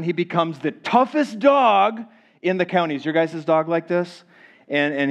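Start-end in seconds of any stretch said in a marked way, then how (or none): 0.0-2.9 higher, hammed-up toughness; mock tough. Preacher telling how his sweet dog turns fierce, mock tough. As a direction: build the dog up as a menace.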